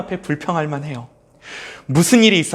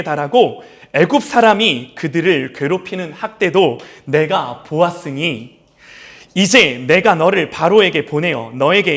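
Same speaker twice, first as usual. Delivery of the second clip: scripture reading. Acted. Pastor reading God's command to Moses, solemn. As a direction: read the command deliberately.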